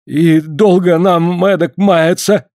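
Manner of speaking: slow, shivering question; teeth chattering. Acted. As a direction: shiver through the words. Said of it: "зубы стучали от холода".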